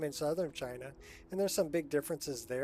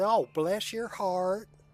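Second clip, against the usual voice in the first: put-on Southern drawl, slow and high-pitched; 5 semitones higher, 7 dB louder than usual. Comparing accents across regions of the country, in a southern accent. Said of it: "Then down in the South".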